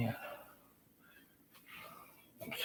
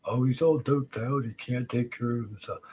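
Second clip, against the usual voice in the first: mocking quote; 4 semitones higher, 5 dB louder than usual. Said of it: "What do they tell everybody".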